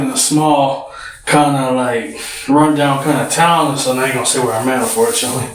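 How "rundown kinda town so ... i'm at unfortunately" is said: winded, talking between breaths; breathless from rushing for the bus. Real, not acted. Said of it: "I'm out of breath".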